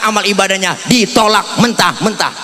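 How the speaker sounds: sing-song preaching. Acted. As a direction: preach it out with rising fervour. Preaching, chanted with music. (ceramah berirama penuh semangat)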